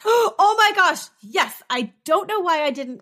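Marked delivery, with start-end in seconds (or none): 0.1-1.0 high excited burst of surprise; surprised. Real, not acted. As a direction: gasp it out, much higher and louder. Gasps at Madeleine McCann news.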